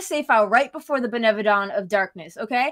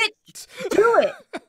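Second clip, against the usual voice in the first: drawn-out teasing dare; slow dare; 9 semitones higher, much slower than usual. Real, not acted. Daring Shadow to play it, slow and taunting. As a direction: stretch each word out as a taunt.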